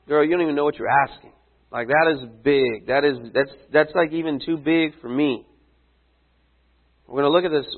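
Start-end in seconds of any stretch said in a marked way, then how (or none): 0.1-5.4 casual brush-off. Retold or imitated. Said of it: "And he's like".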